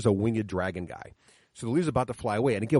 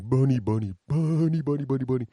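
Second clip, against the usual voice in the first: lightly voiced, mock-tearful giant; crying half-orc; 3 semitones higher than usual. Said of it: "they heard this guy crying".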